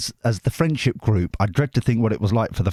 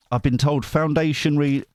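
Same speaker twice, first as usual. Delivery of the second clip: ordinary talk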